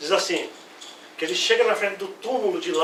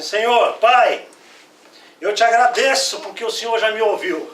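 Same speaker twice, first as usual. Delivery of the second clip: louder, lifted prayer to the Father; 3 semitones higher, 5 dB louder than usual. Acted. Jesus at Lazarus's tomb thanks the Father, loud and lifted. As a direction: call up to heaven in thanks. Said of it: "Ele olha pra Deus e fala assim".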